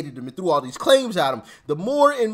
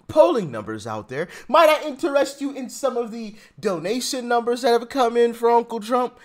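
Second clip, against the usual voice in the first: mock-polite taunt; 4 semitones higher than usual. Mock-formal taunt repeated.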